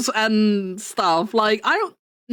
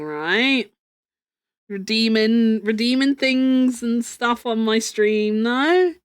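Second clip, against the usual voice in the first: sarcastic. Acted. Mock accusing Geary of chatting.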